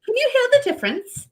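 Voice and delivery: high-pitched mock British accent; put-on British voice, pitched high; imitated British accent. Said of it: "did it in his actual accent".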